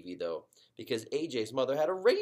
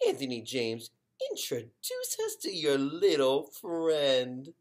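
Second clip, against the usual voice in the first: mom's greeting; 4 semitones higher, 4 dB louder, slower than usual. Acted. Mom voiced greeting son's friend.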